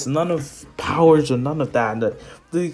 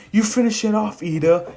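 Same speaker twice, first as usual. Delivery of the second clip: raised, higher-pitched call to an ally; acted battle order; 7 semitones higher, 4 dB louder than usual. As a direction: hand off the attack with a light mock shout. Hero calls order to ally.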